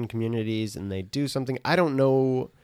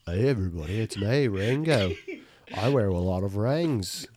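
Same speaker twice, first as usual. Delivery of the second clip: hammed-up British drummer; a famous drummer. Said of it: "my accent was so terrible".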